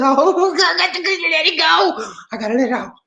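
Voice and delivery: host apologizing while laughing. Real, not acted. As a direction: talk while still cracking up. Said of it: "I just can't keep it to myself".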